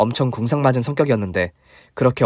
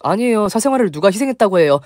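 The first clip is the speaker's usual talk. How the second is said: high, startled protest; pitched-up exasperated objection; flustered denial; 9 semitones higher than usual. Retold or imitated. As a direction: brush off the praise in disbelief. Narrator protests to fan.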